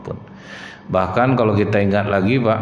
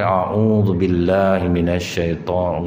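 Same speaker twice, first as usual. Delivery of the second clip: pointed slow ta'awuz; 2 semitones lower, slower than usual. Shown as a demonstration. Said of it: "Jangan kuat-kuat ngomongnya".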